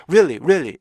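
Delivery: "really" as quick two-syllable rilli; wrong short REALLY. Shown as a demonstration. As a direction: drop the middle beat of "really". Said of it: "이게 아니고요".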